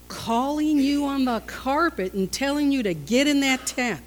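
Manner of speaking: usual speaking voice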